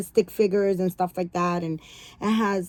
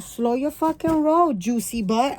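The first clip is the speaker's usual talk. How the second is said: husband's voice; 6 semitones higher, 4 dB louder, slower than usual. Retold or imitated. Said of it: "He be like".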